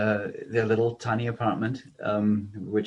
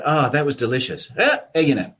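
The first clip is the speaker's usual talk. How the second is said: Montreal Greek chat; 2 semitones higher, 6 dB louder than usual. Retold or imitated. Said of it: "It doesn't matter what".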